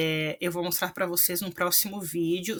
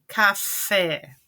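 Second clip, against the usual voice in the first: café with the final fé punched louder; stress on final syllable; 4 dB louder than usual. Shown as a demonstration. Teacher showing students an oxítona, café stressed on fé. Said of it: "a última sílaba é a tônica".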